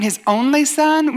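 slow, high-pitched questioning echo; incredulous objector. Acted. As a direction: throw it back as a doubter's challenge. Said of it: "somebody who doesn't even believe there's a God".

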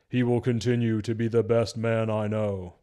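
lightly mocked wooden delivery; badly delivered Batman. Batman answering Joker about Superman, mockingly stilted. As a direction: recite it stiffly as a superhero. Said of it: "just terrible".

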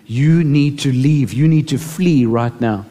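slow, urgent divine command; slow it down and press the warning. Retold or imitated. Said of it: "she heard this voice so loud and so clear, so urgently".

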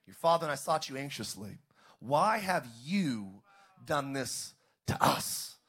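anguished mother's plea, slow; mother scolding Jesus. Acted. Mother to her lost son, slow anguished plea. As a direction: plead like a worried mother. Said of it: "And his mother said".

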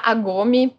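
Agome with the first K dropped; Brazilian dub name. Shown as a demonstration. Dubber citing the renamed Brazilian version, Agome without its K. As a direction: start Agome straight on the A. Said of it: "mudaram aqui no Brasil pra Agome".

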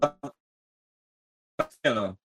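slowed, dragging broken audio; glitching audio. Real, not acted. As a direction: voice lagging on a bad call. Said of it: "tá travando tudo".

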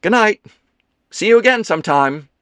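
high, loud, brisk politeness; a brightly polite brush-off; polite farewell. A narrator's reading. Leo saying goodbye to Ethan, polite and brisk. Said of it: "gave him a polite smile".

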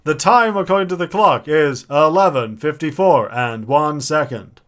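stiff automated time announcement; talking alarm clock. Pretend. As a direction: read the time like a speaking clock. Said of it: "I married the talking clock".

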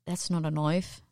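mock Australian accent; Aussie movie-line impression, lightly done; Crocodile Dundee. Co-host echoing the host's film quote, mock Australian accent. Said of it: "you watched Crocodile Dundee".

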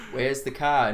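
put-on "Where's the car?" in a broad Australian accent; an Aussie asking "Where's the car?". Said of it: "Australians are all like".

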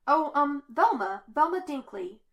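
miserable, flustered introduction; wretched. A narrator's reading. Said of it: "before wretchedly speaking".

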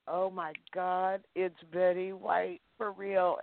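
starstruck hush. Retold or imitated. Starstruck inner thought at audition.

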